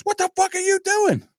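lightly voiced high angry cousin; a hint of an outraged cousin; cousin yelling. Cousin catching him with the rag, mock outrage. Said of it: "He goes".

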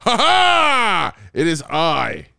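big mock pirate proclamation; pirate dad. Dad hamming it up as a pirate for the podcast, loud. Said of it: "I have to do this voice".

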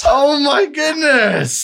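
high, drawn-out wail; exasperated exclamation. Real, not acted. Contestant after failing the challenge, exasperated wail. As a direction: cry out in exasperation. Reacts to running out of time.

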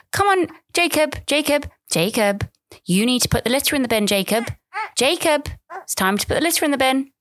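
high, sing-song patronising parent voice; mock sugary parent coaxing a toddler; mocking gentle parent. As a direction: ham up an over-patient parent in the park. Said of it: "his parents were being so kind of annoying".

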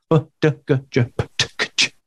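"B, D, G, J, P, T, K, Ch" run together quickly; rattled off fast. Shown as a demonstration. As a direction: fire the sounds off in one fast breath. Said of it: "we gotta learn them that fast".

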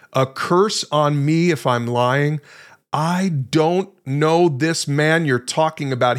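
slow, emphatic denial, word by word; swearing an oath. Acted. Peter swearing to bystanders he doesn't know Jesus, slow emphatic oath. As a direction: swear it slowly, weighing each word. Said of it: "Peter swore".

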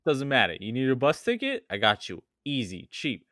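put-on pushy Long Island accent hustler; light Long Island accent, sales pitch. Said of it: "going more for, like, a Long Island type deal".

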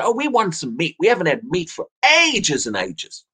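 lightly moaned complaint, stretching out AGES; mock moaning. Israelites tired of manna begging for meat, mildly mock moaning. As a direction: imitate a grumbling crowd with mild whining. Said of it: "they began to moan and say".

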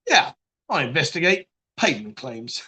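lightly acted low, sober official repeating himself; deadpan job admission. Claims detective repeating his job to stranger, mock deadpan. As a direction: repeat it low and straight, for comic effect.

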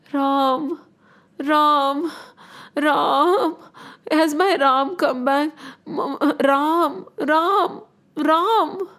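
grieving king's drawn-out moan; mournful calling.

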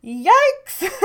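high, loud mock yelp; shrill-free comic yikes yelp. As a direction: squeal it in mock horror. Mock alarm at being back.

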